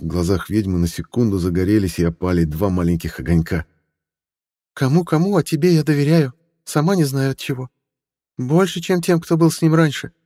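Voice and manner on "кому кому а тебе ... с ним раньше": put-on higher, pleading older woman; mother's voice. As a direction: coax him like a worried mother. Mother trusts Stella.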